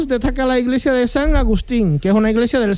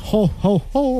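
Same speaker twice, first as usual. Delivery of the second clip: Papá Noel; slower than usual. Pretend. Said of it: "como Papá Noel".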